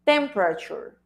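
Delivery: temperature said as TEM-pra-chur, stress on first syllable; teacher modelling temperature; model pronunciation. Shown as a demonstration. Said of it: "Listen to the pronunciation of this".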